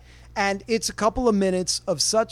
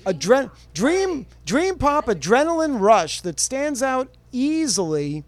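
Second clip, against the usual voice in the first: a lightly voiced hype announcer read; 2 semitones higher than usual. Shown as a demonstration. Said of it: "I'll do it in my best announcer voice".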